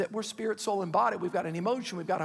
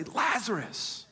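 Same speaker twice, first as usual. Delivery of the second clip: "Lazarus" stretched slowly, each syllable held; drawn-out Lazarus; 2 semitones higher, much slower than usual. Shown as a demonstration. Preacher leads the church in saying the name slowly. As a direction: pull "Lazarus" out long. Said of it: "Everybody say".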